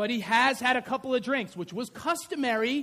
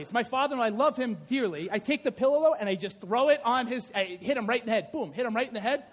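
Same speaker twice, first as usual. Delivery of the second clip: ordinary delivery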